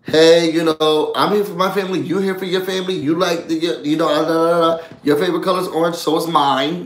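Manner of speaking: heartstring appeal. Retold or imitated. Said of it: "hit at the heartstrings".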